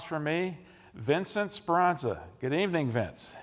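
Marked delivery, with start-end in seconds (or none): none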